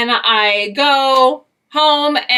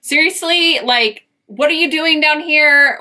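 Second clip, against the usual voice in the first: exasperated, higher and slow; annoyed; 5 semitones higher, slower than usual. Retold or imitated. To the ex-boyfriend on the roadside, slow exasperated disbelief. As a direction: stretch it out in disbelief at him. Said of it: "I was kind of annoyed at him".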